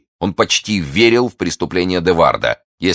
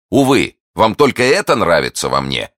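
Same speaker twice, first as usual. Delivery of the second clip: loud, raised lover's complaint; ardent lament; 5 semitones higher, 6 dB louder than usual. Acted. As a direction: protest it with lovelorn fervour. Lovelorn suitor laments to his lady. (пылкая жалоба влюблённого)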